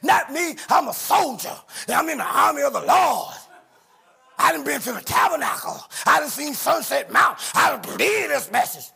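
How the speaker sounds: thump your chest, swearing loyalty; boastful vow. Retold or imitated. Peter boasting his loyalty.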